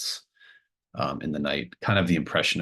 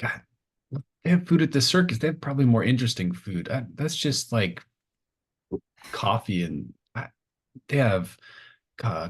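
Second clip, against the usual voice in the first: put-on high-pitched eager kid rattling off circus treats; a child begging to go, voice up high; excited kid Lucas; 4 semitones higher than usual. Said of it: "He's probably gonna be like".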